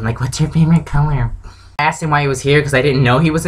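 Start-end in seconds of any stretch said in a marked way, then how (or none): 0.2-1.3 higher mock fangirl voice; weird fangirl. Fan quizzing her favorite actor, mock fangirl voice, higher. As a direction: imitate an over-keen fan interrogating a star. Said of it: "weird fangirl interrogation".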